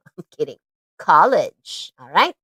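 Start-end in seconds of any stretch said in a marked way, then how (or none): 1.0-1.9 college said slowly and clearly, two syllables, stress on the first; model pronunciation. Shown as a demonstration. Teacher modelling college for kids to repeat. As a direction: say college as KAH-lij. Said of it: "That's how they pronounce that".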